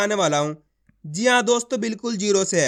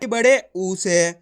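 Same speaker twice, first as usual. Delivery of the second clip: drawn out; 3 semitones lower, much slower than usual. Shown as a demonstration. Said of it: "खींच खींच के पढ़ना है".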